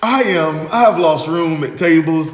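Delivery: laughing, high and loud, I'm ruined; laughing mock despair. Real, not acted. Host laughing after guest's crude advice, laughing. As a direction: crack up while lamenting.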